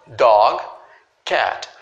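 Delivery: Dog and cat ending sharply, with no I after them; no final vowel. Shown as a demonstration. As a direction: stop dead on Dog and cat. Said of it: "a pronúncia ela vai só até aqui".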